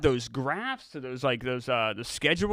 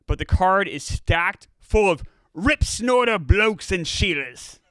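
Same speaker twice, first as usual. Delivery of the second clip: put-on Australian accent; 4 semitones higher than usual. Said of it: "do an Australian accent".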